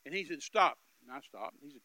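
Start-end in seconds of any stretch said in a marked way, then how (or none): 0.4-0.8 barked stop. Retold or imitated. Robber orders stop.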